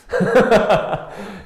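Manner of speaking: a bright amused laugh. Real, not acted. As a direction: burst of high laughter. Laughs at awkward idea.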